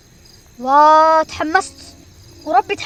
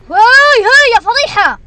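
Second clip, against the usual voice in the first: louder, higher exclamation; embarrassed outburst; 6 semitones higher, 8 dB louder than usual. Real, not acted. Gamer reacts to a loud embarrassing sound, high outburst. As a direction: cry out at the embarrassing noise.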